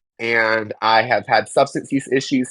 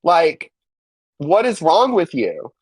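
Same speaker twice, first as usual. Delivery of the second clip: higher, incredulous rant at the church friends; exasperated outburst; 6 semitones higher than usual. Retold or imitated. Answering churchgoers rebuking her song post, exasperated retort. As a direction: let the disbelief boil over, pitched up. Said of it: "I'm like".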